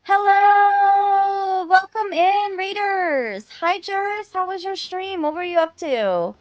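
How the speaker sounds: high bright streamer voice; bubbly anime girl greeting; cute anime streamer. Acted.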